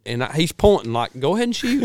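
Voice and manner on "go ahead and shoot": retold urging.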